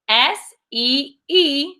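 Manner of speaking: letters spelled out slowly; spelling slowly. Shown as a demonstration. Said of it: "the first one is see".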